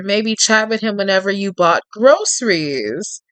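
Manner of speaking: even, lightly dramatic storytelling read; story narration. A narrator's reading. Narrating Tate's menace to the listener in a gentle storyteller read. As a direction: draw the listener into the tale.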